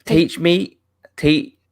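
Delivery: attempted New Zealand accent, halting. Shown as a demonstration. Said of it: "say pizza in a New Zealand accent".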